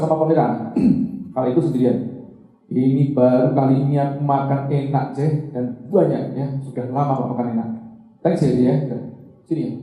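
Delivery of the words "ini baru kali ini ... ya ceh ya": grateful thanks. Retold or imitated. Om Bob grateful after meal.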